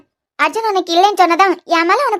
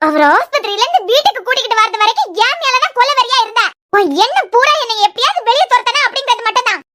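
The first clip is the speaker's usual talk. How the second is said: higher, heated accusing voice; raised angry accusation; furious; 4 semitones higher than usual. Acted. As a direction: rage at her heartlessness. Furious confrontation.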